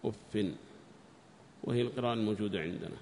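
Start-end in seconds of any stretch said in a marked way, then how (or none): 0.0-0.5 "أف" ending in -in, as uffin; low, soundly nunated "أف", uffin; kasra with tanween. Shown as a demonstration. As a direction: say "أف" as uffin, with a final n. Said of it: "بكسر الفاء مع تنوينها".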